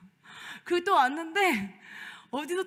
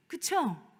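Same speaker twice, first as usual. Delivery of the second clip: usual speaking voice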